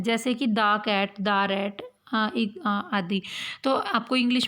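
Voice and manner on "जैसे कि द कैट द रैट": द cat and द rat with a short uh; the as thuh. Shown as a demonstration. Teacher demonstrating the article before consonants, short. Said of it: "द बोलते हैं".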